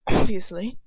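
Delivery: put-on loud English-accented character line; Ron, English accent. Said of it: "Ron says".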